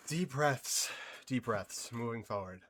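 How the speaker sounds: soft, low self-soothing; calming down. Real, not acted. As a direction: talk yourself down quietly. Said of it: "I gotta catch my breath".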